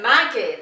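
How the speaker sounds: her own British way of saying "Maggie"; "Maggie" said loud in her home accent; own-accent name. Shown as a demonstration. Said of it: "and my name".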